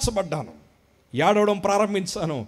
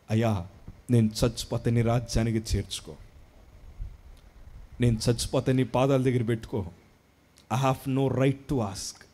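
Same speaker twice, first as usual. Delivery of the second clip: hushed humble prayer; 6 semitones lower, 5 dB quieter than usual. Retold or imitated. Retold humble prayer near death.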